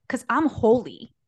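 put-on slow, earnest little girl voice; dead serious child. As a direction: say it with zero irony. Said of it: "she was dead serious".

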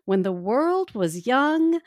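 grave ancient myth telling. Acted. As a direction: intone it like an old legend. Begins the ancient tale.

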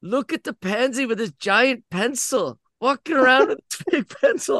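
high-pitched imitation of jeering kids; mocking taunt. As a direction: point and make fun like a little bully. Boys ridicule him with pencil.

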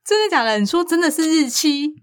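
high, disbelieving questions; you can't be serious; incredulous. Real, not acted. Disbelief at pronunciations.

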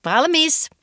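bright high cry of readiness; excited exclaim. A narrator's reading. Girl telling dad she's ready, excited cry. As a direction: call out that she's all set. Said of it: "Nelli huudahti".

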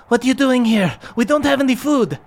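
voice through peephole. Acted. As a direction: call out warily through the peephole.

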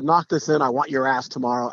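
a touch of trash-talk menace; hint of a cocky taunt; mock taunt. Shown as a demonstration. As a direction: sneer it lightly as a threat. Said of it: "Not a".

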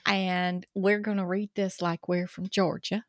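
Paula Deen accent. Shown as a demonstration. Co-host warming up to read an ad, Georgia accent. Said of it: "put on my Paula Deen accent".

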